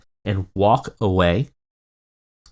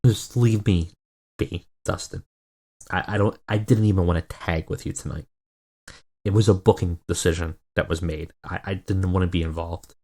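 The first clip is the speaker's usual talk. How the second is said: tired; 3 semitones lower than usual. Retold or imitated. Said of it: "His eyes seem, uh, tired".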